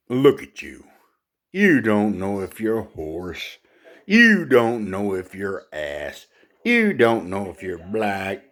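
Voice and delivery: mock the other animal, then boast with pauses; proud lion. Proud lion putting down a zebra, lightly pompous.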